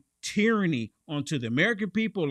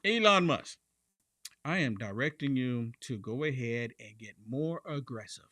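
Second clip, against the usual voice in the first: imitating Trump; 6 semitones lower, 4 dB quieter than usual. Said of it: "Let me go to True Social".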